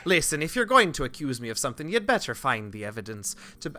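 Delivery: character read drifting into Irish; accidental Irish. Acted. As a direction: keep slipping into an Irish lilt. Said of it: "oh, I'm still doing Irish".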